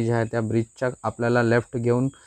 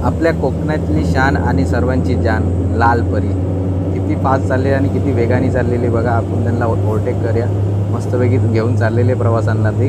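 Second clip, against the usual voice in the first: excited; 6 dB louder than usual. Real, not acted. Cheering the red state bus.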